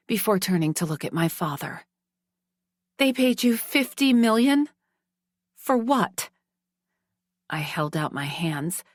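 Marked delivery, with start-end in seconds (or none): 3.0-6.3 beseeching. A narrator's reading. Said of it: "my tone beseeching".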